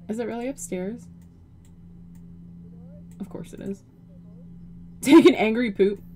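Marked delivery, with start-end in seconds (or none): 5.0-6.0 teasing call. Real, not acted. Teasing her sim about bathroom.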